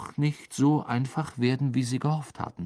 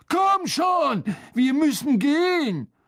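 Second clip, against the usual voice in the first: raised, high urgent shout; urgent calling; 5 dB louder than usual. A narrator's reading. Harry calls Hermine through the door, loud and urgent. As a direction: call through a door to hurry someone.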